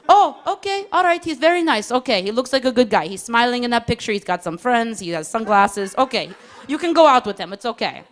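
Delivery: mock-parent relief, winding down; approving mom voice. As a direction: give reluctant permission like a mom.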